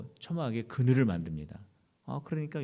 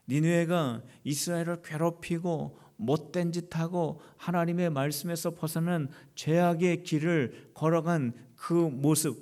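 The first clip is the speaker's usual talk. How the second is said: normal talking voice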